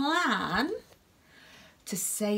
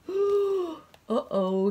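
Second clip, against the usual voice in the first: surprised; 8 semitones higher than usual. Real, not acted. Alarm at the spell.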